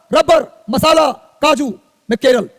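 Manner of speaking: रबर, मसाला said very slowly, each word stretched out; slow dictation. Shown as a demonstration. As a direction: spell out रबर, मसाला slowly for note-taking. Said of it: "इतना धीरे धीरे बोल रहा हूं". (बहुत धीरे-धीरे, लिखवाने वाले अंदाज़ में)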